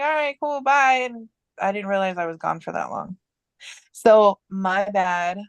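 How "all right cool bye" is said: higher, breezy farewell; high cheery goodbye. Retold or imitated. Waving off her aunt and uncle, high and breezy. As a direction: toss off a bright bye.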